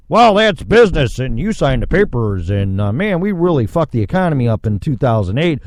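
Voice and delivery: mocking banker. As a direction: parody a smug banker brushing you off.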